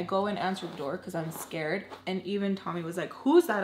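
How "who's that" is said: sharp, higher, louder challenge; mad. Retold or imitated. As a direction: bark it out like an annoyed guardian. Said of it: "Like, mad".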